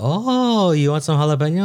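high, stretched "oh" of mock surprise; surprised reaction. Cabana boy reacting to a jalapeno order, surprised. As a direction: imitate an impressed waiter, pitch swooping up.

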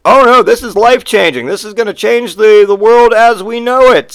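loud, high overexcited proclamation; mock urgency. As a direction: hype it as world-changing. Acted hyped bearer of news.

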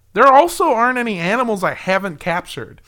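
earnest, boastful read; sincere quote. Retold or imitated. Quoting him as a child, boasting sincerely. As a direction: say it in complete sincerity. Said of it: "he said it in complete sincerity".

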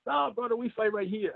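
lightly hammed-up refusal; local guy. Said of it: "local guy refusing to move".

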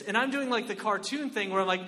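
ordinary talk

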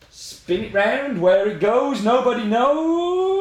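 slow, rising game show chant; game show host. Pretend. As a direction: build suspense like a host. Spinning the wheel.

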